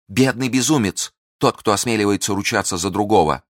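high, loud pitying contempt; impassioned tirade; scornful outburst. Acted. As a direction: lash out at his blindness. Milady's outburst continues.

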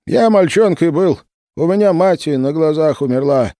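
put-on high, creaky old man's voice. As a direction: creak out each word like an old man. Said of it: "проскрипел Данилыч".

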